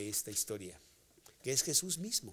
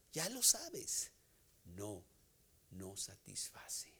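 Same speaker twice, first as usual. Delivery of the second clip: slow, dropping to a voiceless whisper; slow down and let it sink to a whisper; slow fade to whisper; 6 semitones lower, 7 dB quieter, slower than usual. Acted. Preacher slows, then whispers.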